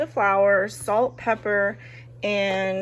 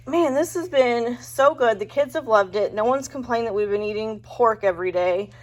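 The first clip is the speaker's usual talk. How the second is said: pleased inner thought; 4 dB louder than usual. Retold or imitated. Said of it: "And I was thinking to myself".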